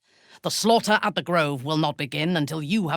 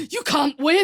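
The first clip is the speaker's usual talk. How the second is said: loud taunt; 14 semitones higher, 5 dB louder than usual. Acted. Taunting enemy.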